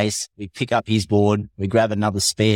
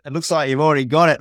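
higher-pitched storytelling voice; imitated reply; 6 semitones higher than usual. Captain answers the cheeky surfers, higher imitated voice.

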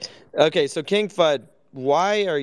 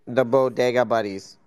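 rough imitation of D Deep's accent; badly imitated D Deep accent. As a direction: have a go at mimicking D Deep's accent. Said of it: "What was that accent".

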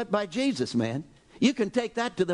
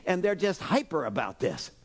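ordinary delivery

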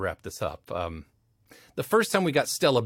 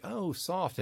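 soothing tone; 7 semitones higher, 7 dB quieter than usual. Shown as a demonstration. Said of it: "having to speak in that tone".

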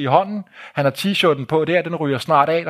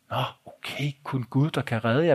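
subdued reply; 6 dB quieter than usual. Retold or imitated. Taken-aback reply to alarming statement.

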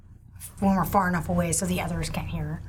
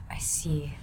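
hushed, slightly lowered voice; very quiet aside; 2 semitones lower, 5 dB quieter, slower than usual. Pretend. Player speaking privately to Sir Horace in character, very quietly. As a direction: say it softly, slow on the name. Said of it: "I say that very quietly to him".

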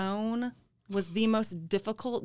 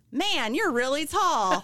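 slow, amused, higher; laughing blurt; 5 semitones higher, 4 dB louder, slower than usual. Retold or imitated. Waitress blurting to a tall guest, laughing. Retelling her blurt to a stranger.

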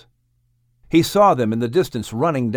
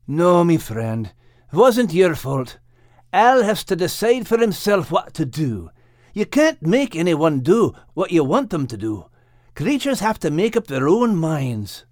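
mildly sad character voice, pitched up; sad reply; 5 semitones higher than usual. Acted. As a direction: absolve a friend with resigned sadness. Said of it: "replied Max sadly".

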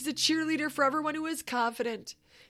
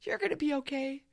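sweet encouragement; 6 semitones higher, 4 dB quieter than usual. Retold or imitated. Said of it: "she was so sweet".

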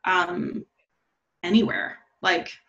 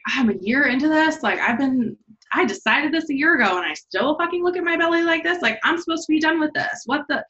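retold frustration with oneself, voice climbing higher; exasperated self-scolding; 5 semitones higher than usual. Woman replaying her inner shame talk, mock exasperated. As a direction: act out berating yourself in mild, higher-pitched exasperation. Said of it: "started feeling shame because I was feeling shame".

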